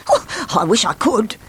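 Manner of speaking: a touch of sadness; wistful Bounce. Acted. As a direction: sigh it out, a little helpless.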